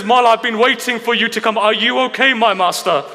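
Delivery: retold cry of a devoted follower; impassioned devotion. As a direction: pour out eager concern for the master. Devoted Habib addresses his master.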